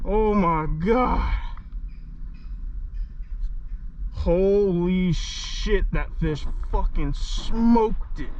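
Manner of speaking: stunned awe. Real, not acted. Landing huge fish, stunned.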